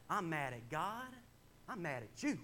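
mock venting with punched final words; unleashed anger. Venting at a friend in the middle of Waffle House, unleashed anger. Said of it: "And so I, I unleash it".

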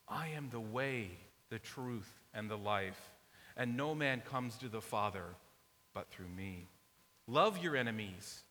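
measured, solemn reading of the Gospel; scripture reading. Acted. Pastor reading Jesus's words to the congregation, solemn reading. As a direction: let each phrase land, then fall away.

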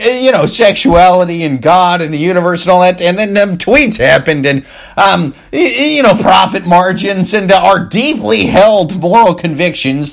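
mock corporate spokesman. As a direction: sneer through a fake-pious PR statement. Mocking corporation's moral convictions.

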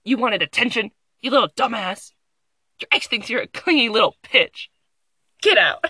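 fast, rising to loud insults; mock the article as a bully; mock rude article. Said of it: "this article is like".

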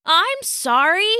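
croaked apology. A narrator's reading. Weakened Tam apologizes to the fairies, croaking. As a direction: plead weakly, a touch of a croak. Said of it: "croaked Tam".

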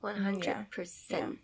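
slow, soft whisper of agreement. Real, not acted. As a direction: breathe it out slowly, barely voiced. Quiet agreement in discussion.

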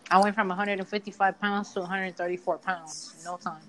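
talking while eating; mouth full. Real, not acted. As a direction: speak through a bite of food. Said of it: "I'm eating a, a granola bar".

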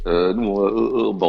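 imitated tongue-tied hesitation; acting lost for an answer; flustered stammering. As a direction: fumble for words with drawn-out ums. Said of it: "on bafouille".

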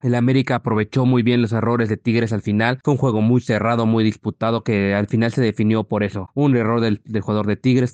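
rough, worn voice after a long day; hoarse from shouting at the match. Real, not acted. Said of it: "perdón por la voz ronca".

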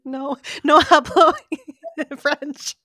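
slow, loud mock tourist line. Friend mimics her clueless tourist phrase, slow and loud. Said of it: "You were like".

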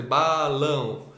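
"balão" as two beats, ba and lão; sílabas separadas. Shown as a demonstration. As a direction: break "balão" up as if clapping each syllable. ("balão" marcado em ba, lão)

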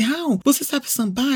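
lightly voiced friend; asking friend. Friend asking Raul if he can samba, lightly voiced. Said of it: "ela disse".

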